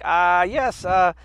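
slow, put-on Austrian accent; worried understatement in a mock Austrian accent. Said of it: "half my family fled Austria".

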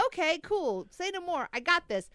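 high, breezy compliance; mock eager agreement. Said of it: "I'm not taking that as".

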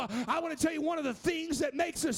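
rising preacher's cadence, half shouted; preaching. Acted. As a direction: build the sermon back up to fervour. Preaching builds again.

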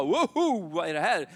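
surprised yelp. Retold or imitated. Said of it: "Och jag bara".

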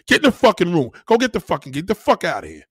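mock rapper blowing up and yelling; mock angry yell. A rapper yelling at his wife to get in the room, loud mock anger. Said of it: "he's like".

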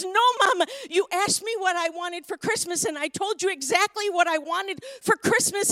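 loud mock upset little boy; insistent kid's complaint, lightly acted; retold tearful protest. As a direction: imitate a crying child arguing with mom. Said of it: "he's crying and he's crying".

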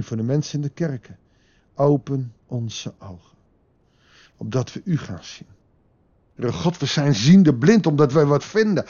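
earnest spoken prayer, swelling midway then settling; closing prayer. Real, not acted. Preacher praying for listeners and churches, earnest prayer.

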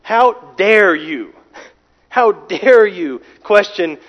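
God's hypothetical outrage, rising toward a thundering peak; stern rebuke. Pretend. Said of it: "confront Cain and say".

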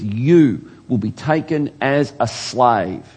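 slow, emphatic sentence passed on someone; prophetic pronouncement. Acted. Jeremiah accusing the king before the royal court, slow pronouncement. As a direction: pronounce doom deliberately, weighting each word. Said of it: "he points his finger at King Zedekiah".

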